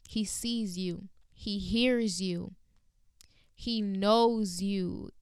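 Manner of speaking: slow, weighty refrain; solemn preaching. Acted. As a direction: drive each phrase home slowly.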